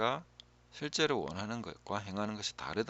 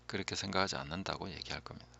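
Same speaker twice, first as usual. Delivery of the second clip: ordinary talk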